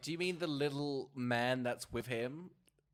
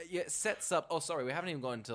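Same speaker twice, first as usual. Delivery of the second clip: ordinary delivery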